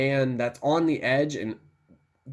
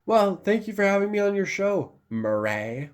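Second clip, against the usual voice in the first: playful impression, pitched up until the final mur-RAY; Joker; 6 semitones higher than usual. Fan riffing as a talk show guest, mock Joker voice. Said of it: "he calls him Murray".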